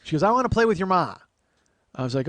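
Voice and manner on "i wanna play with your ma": high, loud imitated aunt; eager aunt. Aunt wanting a game with mom, eager aunt voice. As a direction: announce your plan as the aunt.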